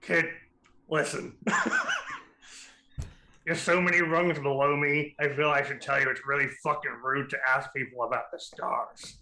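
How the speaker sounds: lightly voiced cigar-chomping pirate; gravelly pirate voice. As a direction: talk round a cigar like a pirate. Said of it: "I'm glad I have a voice for her now".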